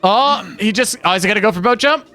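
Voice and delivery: halting play-by-play parody with startled ohs; imitated solo commentator. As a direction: mimic a host losing the thread mid-play. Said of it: "You'd just be like".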